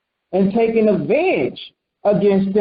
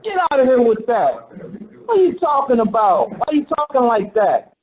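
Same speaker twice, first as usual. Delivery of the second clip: higher-pitched, lightly acted disbelief; mock incredulous challenge; 4 semitones higher than usual. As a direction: challenge them as if they sound ridiculous. Acting out community's scornful reaction.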